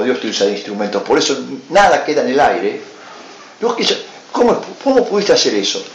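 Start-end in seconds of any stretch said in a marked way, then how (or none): 3.6-5.8 outraged. Retold or imitated. Confronting the priest.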